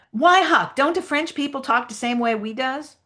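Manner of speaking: high-pitched puzzled character asking; Jim. Acted. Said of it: "try to sort of read the Jim lines".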